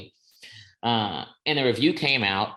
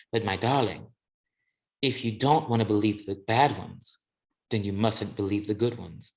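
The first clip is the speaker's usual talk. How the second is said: put-on South African accent. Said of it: "she was South African".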